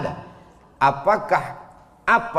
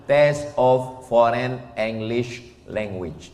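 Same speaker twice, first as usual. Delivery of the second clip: slow English; slower than usual. Shown as a demonstration. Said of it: "Ada tufel".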